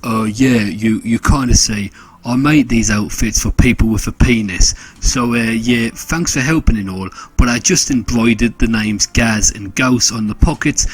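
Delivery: a touch of sheepish, hesitant mumble; awkward mumbling. Acted. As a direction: mumble an awkward excuse, lightly acted. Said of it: "and then mumbling out".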